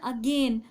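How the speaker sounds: "अगेन" with one syllable leaned on; syllable stress. Shown as a demonstration. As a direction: demonstrate stress within "अगेन", one part stronger. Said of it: "इसमें भी एक part में दिया जा रहा है". ("अगेन" के एक हिस्से पर ज़ोर)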